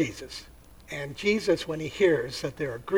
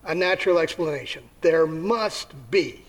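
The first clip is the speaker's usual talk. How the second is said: stubborn skeptic. Acted. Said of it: "Another will say".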